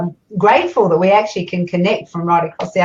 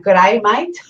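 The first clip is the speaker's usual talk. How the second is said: lightly put-on Australian accent. Reading out a viewer's greeting from Australia, in an attempted Australian accent. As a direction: have a go at an Aussie greeting. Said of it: "can't even do the Australian accent".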